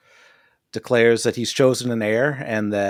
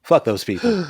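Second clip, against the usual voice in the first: raised repeat; 5 semitones higher than usual. Pretend. Joking repeat, low then raised.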